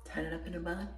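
breathless, catching her breath. Real, not acted. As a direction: talk while winded. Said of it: "I'm out of breath".

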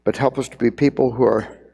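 closing prayer. Acted. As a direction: pray over the congregation, unhurried.

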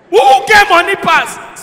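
normal talking voice

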